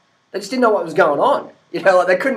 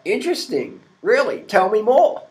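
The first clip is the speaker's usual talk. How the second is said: mock interest; 5 semitones higher than usual. Mock interest at protein question.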